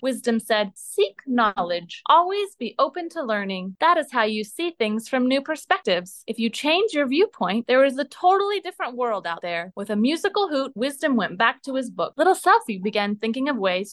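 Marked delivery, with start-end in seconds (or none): 0.8-9.7 a hint of a wise old owl sharing advice. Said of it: "most owly voice you've ever heard".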